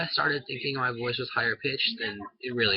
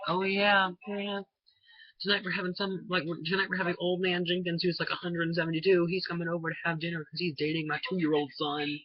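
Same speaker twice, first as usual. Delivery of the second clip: higher-pitched imitation of an easygoing parent; mock agreeable parent; 5 semitones higher than usual. Imagined parent casually announcing a dinner guest, mock agreeable. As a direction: play a parent cheerily announcing, in mockery. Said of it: "parents of America aren't just gonna be like".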